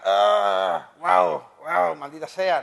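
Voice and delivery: mild yelp and bark, lightly voiced; dog voice. Lightly voiced dog on a nail complaining in pain. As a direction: play the dog whining on a nail. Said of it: "y el tío está".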